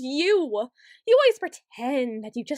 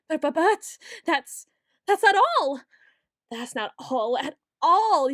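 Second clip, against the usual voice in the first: frantic outburst; 5 dB louder than usual. Acted. Frantic accusation bursts out.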